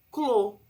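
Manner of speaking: Clô with a clear CL blend; syllable demo. Shown as a demonstration. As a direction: sound out Clô for kids. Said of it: "eu vou ter outro som".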